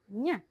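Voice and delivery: "Nye" with n and y blended through the nose; Spanish-style ny. Shown as a demonstration. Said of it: "like the Spanish".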